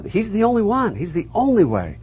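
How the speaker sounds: ONLY lifted high for emphasis; emphatic. Shown as a demonstration. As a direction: make "only" stand out with a swoop in pitch. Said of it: "It's very emphatic".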